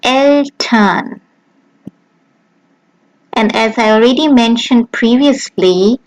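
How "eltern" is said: Eltern as EL-tern with a German e; German Eltern, stress on the first syllable; German pronunciation. Shown as a demonstration. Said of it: "and in a German word".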